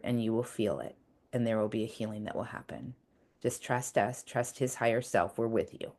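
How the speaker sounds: soft, soothing, reassuring words to yourself; a tender inner voice comforting you. Shown as a demonstration. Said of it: "I'm gonna do a little example right now".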